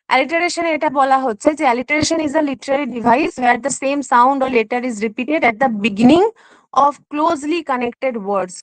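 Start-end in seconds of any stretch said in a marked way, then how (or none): 1.7-8.5 very slow, careful textbook reading; reading a definition. Acted. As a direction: read it out word by word for the class. Reads definition slowly. (ধীরে ধীরে সংজ্ঞা পড়ে শোনানো)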